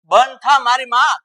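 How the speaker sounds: husband yelling at his chattering wife; exasperated shout. Acted. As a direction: bellow at her to stop talking. Husband cuts off bickering wife.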